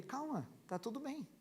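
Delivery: murmured reassurance, barely voiced; soft soothing. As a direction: ease her down gently. Soothing wife in bed. (sussurro tranquilizador)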